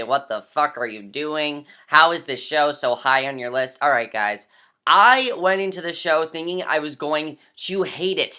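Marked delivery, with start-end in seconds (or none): none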